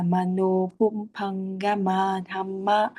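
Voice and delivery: measured recitation with long and short syllables; rhythmic Pali reading. Shown as a demonstration. Teacher reading the whole Pali line back, rhythmic recitation. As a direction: recite evenly, holding the long vowels. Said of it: "cái việc đọc như này".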